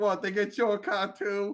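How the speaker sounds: put-on Philadelphia accent. Retelling what a woman whose car was also towed asked: thick Philly accent. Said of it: "got like a crazy thick Philly accent".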